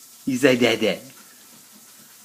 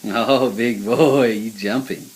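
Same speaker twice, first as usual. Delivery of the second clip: slow tender coo; 3 semitones lower, slower than usual. Real, not acted. Cooing to baby.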